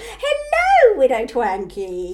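high, loud, drawn-out sing-song greeting; panto audience reply. Acted. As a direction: call back like a child at the panto.

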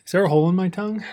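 rushed, pained from the heat; talking with cheeks on fire; mouth burning from spicy food. Real, not acted. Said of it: "my cheeks are on fire".

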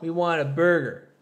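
mildly mock-stern demand; lightly playact a stubborn household demand; imagined household rule. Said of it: "what I imagine Andrew's household sounds like".

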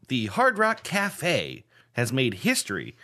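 measured, emphatic news-reader delivery; mock news read. Host reading a game story to player, newsreader style. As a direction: read it out like a headline item.

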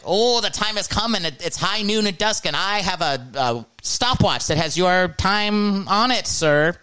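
hammed-up melodramatic emo voice; mock emo dramatic. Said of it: "They have to be like".

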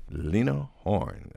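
slow, stretched-out presenting of the name; drawn-out announcement. Acted. Host announces the singer to the audience, slowly drawn out. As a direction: present her like a showman, taking time.

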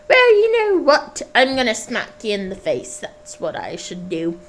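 hammed-up old woman swearing revenge; old lady voice. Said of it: "various different accents".

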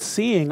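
"seeing" said with clear emphasis; stress on seeing. Real, not acted. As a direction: land firmly on the word "seeing". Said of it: "emphasis on that word".

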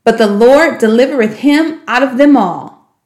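measured, slowing reading of scripture; scripture recitation. Shown as a demonstration. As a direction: recite it like a memory verse, slowing at the end.

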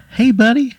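squeaky high cartoon pickle calling out; little pickle shouting up from the plate; tiny pickle voice. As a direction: call up from below in a tiny squeaky voice. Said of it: "And he goes".

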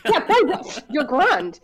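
high, loud laughing retort; laughing mock quote. Laughing through a mock retort to her co-host.

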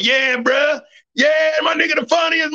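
high-pitched drunken cheering, imitated; loud as hell. Drunk relatives cheering a new comic, high imitated shouting. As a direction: whoop it like drunk, over-supportive family. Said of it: "like, loud as hell".

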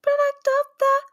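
sing-song show announcement; game show host. Pretend. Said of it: "That actually sounded like a game show".

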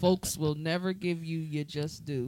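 reading song lyrics aloud; reciting lyrics. Shown as a demonstration. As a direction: recite the verse in rhythm. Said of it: "So verse two says".

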